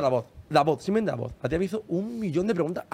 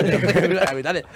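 mocking the nurse; 3 dB louder, much slower than usual. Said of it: "Me dice".

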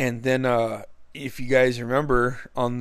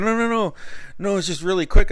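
high, slightly louder mock protest; lightly voiced dismissive buddy; imitating the friend brushing it off; 8 semitones higher, 4 dB louder, faster than usual. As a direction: wave him off in a higher voice. Friend dismissing his worry.

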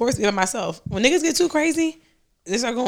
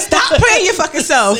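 slow, drawn-out scold with a laugh; mock scolding; 4 semitones higher, 3 dB louder, slower than usual. Real, not acted. Laughing at the ex-husband, drawing out a scold. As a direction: stretch it out like you're telling him off.

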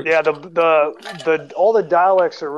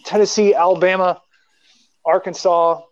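Southern accent; 5 dB louder than usual. Shown as a demonstration. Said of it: "then you've got, of course".

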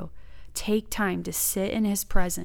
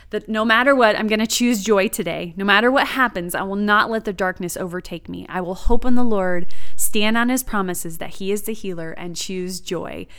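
retold vow, punched out louder then settling; determined, emphatic declaration retold from memory; firm declaration; 5 dB louder than usual. Woman telling the Lord on her drive to work, firm resolve.

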